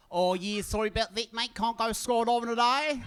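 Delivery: high, drawn-out put-on instructor voice; mock Aussie staff guy. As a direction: play the apologetic skydive guy, slowly. Mocking the skydiving staff guy.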